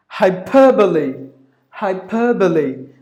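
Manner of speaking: "Hyperbole" as hai-PER-buh-lee; careful "Hyperbole", stress on PER; four syllables. Shown as a demonstration. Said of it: "There are four syllables".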